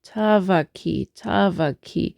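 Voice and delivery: "Tavaki" with light stress on TA; slow three-beat lilt, first beat accented; slight downbeat emphasis. Shown as a demonstration. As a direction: lean gently on the first syllable of "Tavaki". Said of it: "slight emphasis again on the downbeat".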